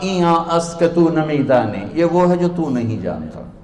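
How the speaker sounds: mildly haughty put-down; arrogant. Retold or imitated. Scholar answering a rustic stranger, imitated arrogance. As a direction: imitate a proud scholar dismissing an ignorant man. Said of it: "उन्होंने बड़े तकब्बुर से कहा".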